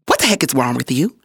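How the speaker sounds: low, quick imitated rebuke; retold coach's scolding. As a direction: demand it like an exasperated coach.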